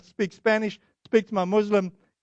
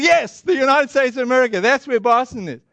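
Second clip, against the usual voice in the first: louder, higher, hammering the point; emphatic answer; 4 semitones higher, 5 dB louder than usual. Retold or imitated. Visitor confirming his home country to shop owner, emphatic. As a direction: confirm it with comic over-emphasis.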